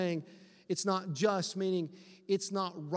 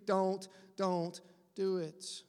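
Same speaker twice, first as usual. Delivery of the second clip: pleading; much slower than usual. Retold or imitated. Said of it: "he's pleading with you".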